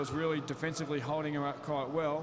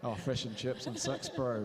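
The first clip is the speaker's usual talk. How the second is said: reluctant attempt at a Kiwi accent, sux; light New Zealand accent, fush and chups and sux; 3 semitones lower than usual. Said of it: "don't even ask me to try and even do a Kiwi accent".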